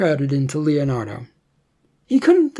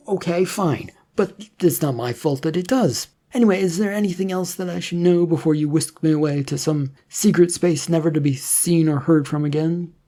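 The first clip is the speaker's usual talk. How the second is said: lightly voiced Leonardo, a touch higher, quickening to the end; sarcastic young man; 4 semitones higher than usual. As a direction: tease the agent, half-joking.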